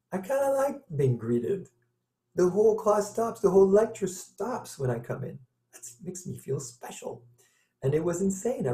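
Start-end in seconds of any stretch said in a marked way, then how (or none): 0.1-5.4 higher-pitched voice imitating a delighted student; mock delight, pitched up high; pleased student. Voices late student's pleased realization. 5.7-7.2 hushed, high, near-whispered mock delight; tiny, airy voice of a flattered student; pleased confiding. Student savoring the attention, voiced.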